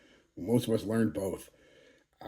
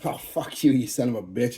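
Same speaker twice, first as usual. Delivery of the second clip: joking insult; 2 semitones higher than usual. Shown as a demonstration. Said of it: "a term of endearment, you know, joking".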